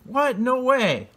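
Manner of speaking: high, loud squeal of disbelief; kids in disbelief. Retold or imitated. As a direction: gasp it out like shocked little kids. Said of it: "And the kids are like".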